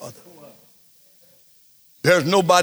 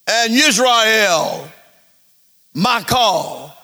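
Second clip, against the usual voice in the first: higher, slow solemn calling voice; Yeshua speaking; 4 semitones higher, 4 dB louder, slower than usual. Acted. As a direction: call out to Israel as Yeshua. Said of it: "That's Yeshua talking now".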